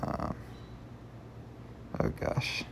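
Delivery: choking mid-sentence. Real, not acted. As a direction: talk through a choke. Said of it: "I'm choking".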